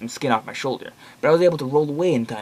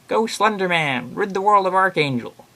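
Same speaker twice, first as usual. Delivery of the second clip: hammed-up theatrical cheer, stretching the names; grand higher-pitched champion's call; mock rallying cry; 7 semitones higher than usual. Answering cheer in mock villain voice.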